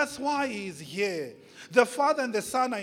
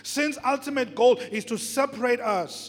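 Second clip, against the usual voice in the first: insistent preaching; 4 semitones higher, 5 dB louder than usual. Real, not acted.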